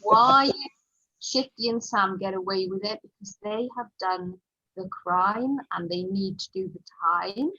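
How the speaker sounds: lightly voiced indignant boy, loud and emphatic; loud, insistent retelling of a child's complaint; indignant young pupil. Boy telling his friend he'll question the author, indignant. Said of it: "I could hear one boy saying".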